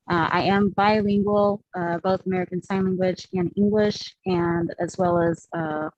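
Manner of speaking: muffled by a mask; through a face mask. Real, not acted. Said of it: "hear me through the mask".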